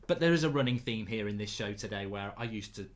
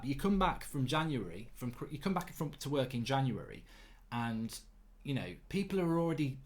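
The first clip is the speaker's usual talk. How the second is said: usual speaking voice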